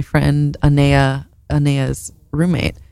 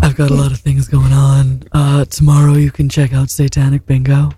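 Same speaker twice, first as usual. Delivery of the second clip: drag queen deep voice; 2 semitones lower, 3 dB louder than usual. Real, not acted. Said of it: "a drag queen when you do your deep voice".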